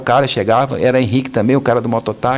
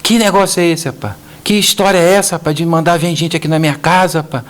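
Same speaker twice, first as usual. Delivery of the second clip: imitando um cliente bravo, mais agudo e alto; reclamação indignada, meio encenada; bravo, imitado; 5 semitones higher than usual. Retold or imitated. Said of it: "E o cara bravo". (cliente bravo reclamando ao telefone, imitado)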